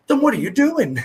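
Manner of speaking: high, loud disbelieving question; incredulous. Retold or imitated. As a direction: ask it in total disbelief. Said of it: "I'm like".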